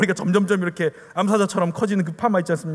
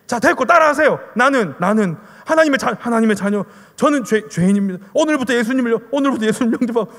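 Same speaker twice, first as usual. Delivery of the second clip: mock drill-like prompting, somewhat raised; imitated brisk commanding; 3 semitones higher, 5 dB louder than usual. Evangelist making a crying stranger repeat, mock commanding. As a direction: order them to repeat each phrase, as retold.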